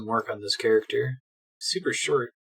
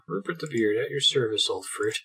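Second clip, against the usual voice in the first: posh English. Acted. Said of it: "Why do you talk so strangely?".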